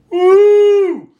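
a loud, high party whoop; cheering whoop. Retold or imitated. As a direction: cheer like a buddy egging him on. Buddies cheering in the background.

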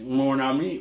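put-on half-hearted Cajun French accent; Cajun accent attempt. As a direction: echo it with a rough Cajun French twang. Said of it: "should we try his accent".

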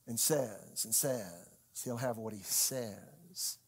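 slow, low, each "says" drawn out; stress on "says". Shown as a demonstration. Preacher recalling what exercising faith means, "says" slowly stressed. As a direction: let every "says" hang and sink. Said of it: "He put the emphasis on the saying".

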